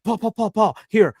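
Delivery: high, bad put-on Jay Glazer voice; terrible Jay Glazer impression. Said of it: "a terrible Jay Glazer impression".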